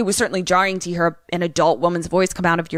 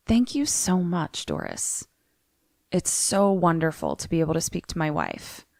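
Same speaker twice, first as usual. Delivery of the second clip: softly retold, unruffled thanks; super chill; 4 dB quieter than usual. Priest thanks the girl after the séance, mildly chill. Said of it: "Father E T stays super chill".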